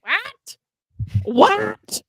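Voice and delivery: high, confused "what?"; baffled what. Pretend. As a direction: squeak out a bewildered "what?". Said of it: "echoing the question marks".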